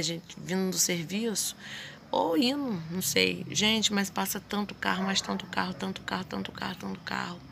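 ordinary talk, nothing marked

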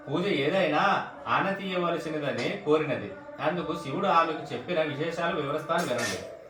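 read-aloud cadence, phrase by phrase; devotional story reading. Real, not acted. Devotee reading the Vaibhava Lakshmi vrata story, measured narration. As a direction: recite the vrata tale from the book.

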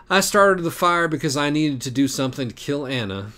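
high, sly, mocking cat; taunting cat voice. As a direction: purr the confession like a smug cat.

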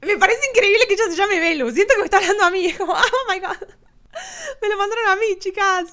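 high, loud, laughing disbelief; squealing delight, pitched high and loud; giddy excitement. Real, not acted. Reacts delightedly to hearing her name.

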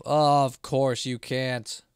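very slow, dragged-out sarcasm; sarcastic drawl. Real, not acted. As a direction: stretch each word out mockingly. Complains at game puzzle.

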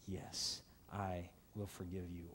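soft, low whispered yes; gentle forgiveness. Acted. God softly answers the sinner, granting forgiveness. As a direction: hush it, tenderly granting forgiveness.

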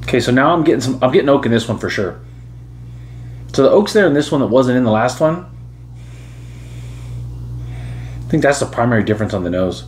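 glass held to lips; talking while nosing whiskey; speaking into a glass. Real, not acted. Seen 0: Whiskey glass held against nose and mouth while speaking, nosing it.

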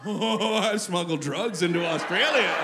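slow, drawn-out self-impressed gloat; impressed realization. Acted. Traveler's second thought after the panic, slow mock pride. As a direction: savor it slowly, like a dawning boast. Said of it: "Immediately followed by the thought".

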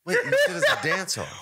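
can't believe it, laugh it out; incredulous laugh. Real, not acted. Questioning his friend's dance-off story, incredulous laugh.

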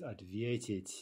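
ответить stressed on the middle syllable ве; stem stress. Shown as a demonstration. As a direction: put the stress in ответить on ве, not the ending. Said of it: "the infinitive shows stem stress".

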